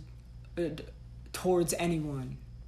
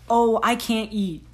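slow, louder mock complaint; mocking whine; 3 semitones higher, 4 dB louder than usual. Mocking a viewer who skips meals, slow mock whine. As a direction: parody the complainer, dragging it out.

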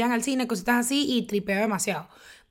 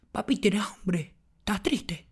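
slow, hushed, pitying interviewer whisper; mock interviewer whisper; 3 semitones lower, 6 dB quieter, slower than usual. Mocking street interviewer talking to a child, in a slow pitying whisper. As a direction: whisper like a fake-sympathetic interviewer. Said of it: "¿y qué?".

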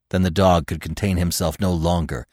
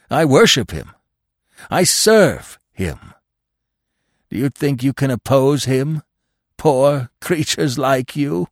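raised, fervent devotion; exultant; 4 semitones higher than usual. A narrator's reading. Dog scorning those who oppose his master, exultant fervour. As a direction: proclaim it with zealous force. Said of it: "quivering with exultation".

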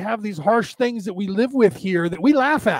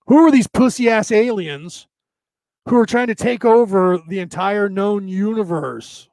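ordinary delivery

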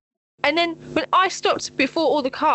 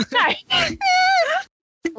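laughing no. Real, not acted. Laughing disbelief.

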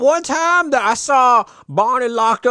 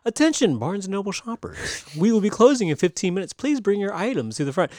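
store announcement; 5 dB quieter than usual. Retold or imitated. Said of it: "it's like the fifteen minute warning".

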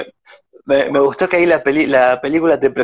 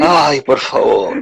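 laughing; 4 semitones lower, much slower than usual. Real, not acted. Laughing at absurd movie scene.

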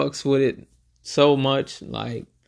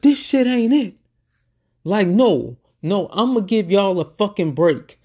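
high, annoyed mock scolding, easing down; annoyed rapper; 6 semitones higher, 3 dB louder than usual. Imitating a rapper scolding the band before a break. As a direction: play the boss cutting the band off.

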